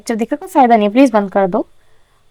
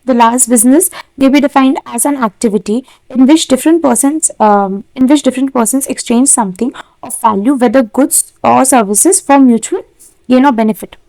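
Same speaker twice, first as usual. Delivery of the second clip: slow, careful reading of a textbook definition; slow dictation reading; much slower than usual. Acted. Teacher dictating a definition to her class, slowly. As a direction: read it out slowly so students can write.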